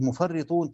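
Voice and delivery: مفرطون as mufarritun, r held double; مفرطون read mufarrrat-un with shadda; doubled r. Shown as a demonstration. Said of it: "وفي قراءة أخرى بالتشديد".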